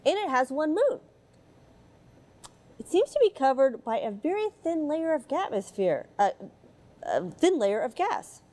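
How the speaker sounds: put-on gentle read-aloud storytelling for children; mild storybook narration voice. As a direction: read it like a bedtime picture book. Reads picture book aloud.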